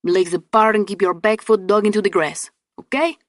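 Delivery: put-on Hispanic accent. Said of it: "He had a thick Hispanic accent".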